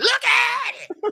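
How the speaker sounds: very high, gravel-voiced preacher voice. Pointing out a dragonfly picture, mimicking a preacher: gravelly preacher voice. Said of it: "As the preacher would say / gravel in your voice, preacher".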